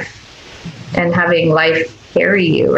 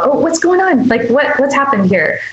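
put-on soothing a toddler; 4 semitones higher than usual. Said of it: "I would go".

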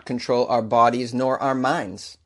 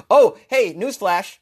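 sarcastic; 7 semitones higher, 5 dB louder, slower than usual. Real, not acted. Sarcastic announcement.

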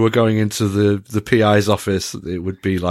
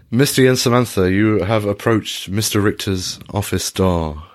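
usual speaking voice

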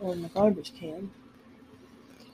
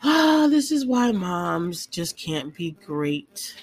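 slow, hammed-up fake sob; mock crying; 3 dB louder, much slower than usual. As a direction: whine it out like a faked cry. Joking lament about interruptions.

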